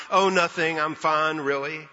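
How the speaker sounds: casual, lightly acted brush-off; mock nonchalance. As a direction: wave it off as if nothing is wrong. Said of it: "with a nonchalant".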